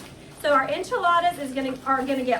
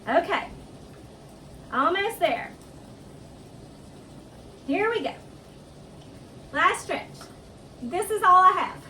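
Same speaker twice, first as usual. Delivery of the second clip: arms burning; 4 semitones higher than usual. Real, not acted. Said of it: "My arms are burning".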